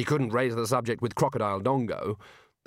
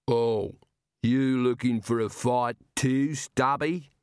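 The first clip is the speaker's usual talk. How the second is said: enormous slow giant rumble; slower than usual. Acted. Giant taunts.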